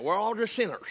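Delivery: garbled Southern, as if chewing. Shown as a demonstration. Preacher showing how to say it, chewed-up Southern accent. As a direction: mush the consonants in a mock Southern accent. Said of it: "chewing something while you're saying it".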